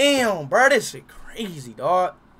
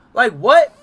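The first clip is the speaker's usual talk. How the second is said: surprised; 4 semitones higher, 15 dB louder than usual. Real, not acted. Confused by app prompt.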